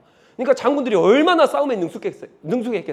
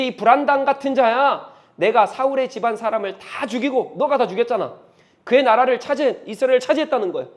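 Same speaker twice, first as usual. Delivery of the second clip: raised, accusing voice; cursing; 3 semitones higher, 4 dB louder than usual. Acted. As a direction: hurl the accusation at David. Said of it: "저주를 막 퍼붓고 있는 거예요". (분노하며 저주하듯 외치는 목소리)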